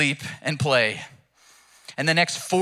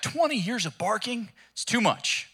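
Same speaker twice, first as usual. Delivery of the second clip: dog complaining; 4 semitones higher than usual. Acted. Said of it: "the dog's like".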